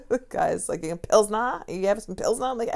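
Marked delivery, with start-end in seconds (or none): 0.8-2.5 lightly imitated Boston customer, louder; mock Boston accent. Customer questioning the bartender, in a mock Boston accent. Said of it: "Guy's from Boston".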